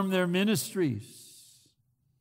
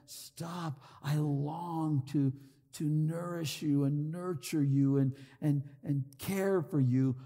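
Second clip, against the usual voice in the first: subdued, soft appeal; pleading; 2 semitones lower, 6 dB quieter than usual. Retold or imitated. Preacher voicing Jesus longing to care for them, softly pleading. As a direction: retell a heartfelt cry as a quiet plea. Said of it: "he's pleading with them, Jesus, crying out".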